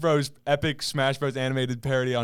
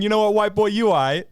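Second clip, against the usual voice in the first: a touch higher, lightly voiced Miyamoto; mock Miyamoto; 5 semitones higher, faster than usual. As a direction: toss off a mild Miyamoto impression. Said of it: "I love the thought of Miyamoto going".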